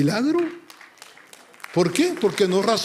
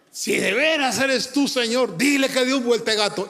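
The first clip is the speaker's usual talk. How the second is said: impassioned convert; 5 semitones higher than usual. Retold or imitated. Convert's challenge to God, acted.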